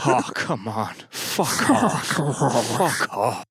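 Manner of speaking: hammed-up repeated brush-off; dismissive friend voice. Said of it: "That's actually you pitched down".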